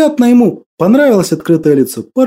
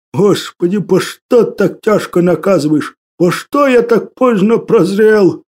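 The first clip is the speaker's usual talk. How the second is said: moaning lament; 2 semitones higher than usual. Acted. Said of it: "протягивал руки к небу и стонал".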